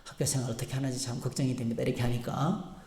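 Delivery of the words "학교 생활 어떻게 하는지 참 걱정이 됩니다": a hint of a worried, fumbling parent; lightly voiced flustered mother. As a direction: softly fret like an anxious mother. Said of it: "학부모님이 쩔쩔매면서".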